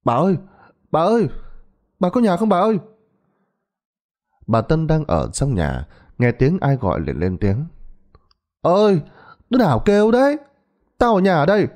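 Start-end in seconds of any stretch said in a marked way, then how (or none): 0.1-2.8 high, rising calls from outside the gate; son-in-law calling out for his mother-in-law. Acted. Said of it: "Chú đứng ngoài cổng hét lên". 8.6-11.7 high calling answer from inside the house; grandma calling out from the house; old woman calling back. Acted.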